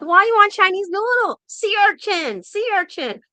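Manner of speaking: high, loud, broken-English mock nurse; mock hospital staff. Hospital staff urge the Australian patient to eat sea urchin, high mock insistence. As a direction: push the sea urchin on him, teasing.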